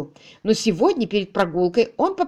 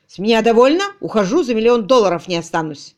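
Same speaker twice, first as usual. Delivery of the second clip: angry quitting; 6 dB louder than usual. Acted. Tutor quitting in a rage.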